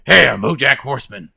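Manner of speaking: lightly voiced cartoon character, slowed down; BoJack Horseman. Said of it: "he talks like this".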